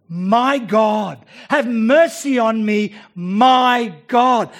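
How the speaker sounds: David's desperate prayer, shouted; loud cry. Acted. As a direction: shout to God for mercy. David crying out to God.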